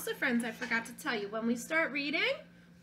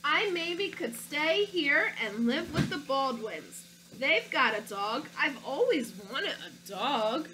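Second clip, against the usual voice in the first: put-on storybook read-aloud, childlike narrator; reading to children; slower than usual. Teacher reading a picture book to her class, storytelling voice. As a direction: read it like a stubborn little boy.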